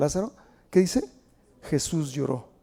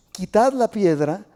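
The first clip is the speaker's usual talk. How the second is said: firm command; 5 dB louder, slower than usual. Acted. Jesus commands at the tomb.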